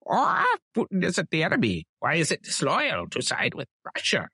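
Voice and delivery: Tucker voiced in a Russian accent. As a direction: lay on a thick Russian accent. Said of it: "you do a great Russian accent".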